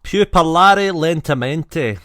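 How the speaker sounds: slow careful Italian. Shown as a demonstration. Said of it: "in my accent".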